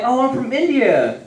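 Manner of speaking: put-on Indian accent. White friend answering the Walmart clerk, in an Indian accent. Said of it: "he uses his Indian accent".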